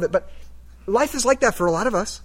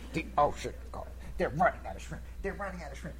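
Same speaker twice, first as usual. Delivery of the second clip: muttering to himself; 3 semitones lower, 11 dB quieter than usual. Retold or imitated. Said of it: "repeating over and over to himself".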